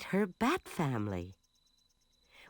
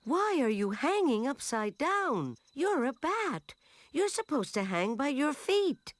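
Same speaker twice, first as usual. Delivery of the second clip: loud bat voice; 9 semitones higher than usual. A narrator's reading. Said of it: "a loud voice said".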